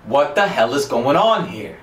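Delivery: mock outraged holler; retold yell. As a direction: yell it slowly at the cop, stretching the words. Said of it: "So I yelled at the cop".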